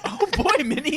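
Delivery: high falsetto cartoon mouse; Mickey Mouse. Opening the podcast as a joke, high mouse impression. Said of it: "Mickey and Minnie Mouse voice".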